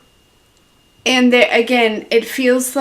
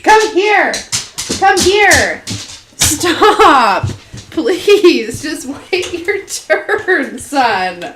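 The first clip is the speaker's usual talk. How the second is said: talking to the dog; 5 semitones higher, much slower than usual. Real, not acted. Scolding her dog.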